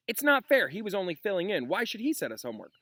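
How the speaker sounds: high, whiny protest; complaining students. Acted. Students complain to Lupin about Snape, whining. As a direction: whine it like outraged kids. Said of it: "The babble broke out".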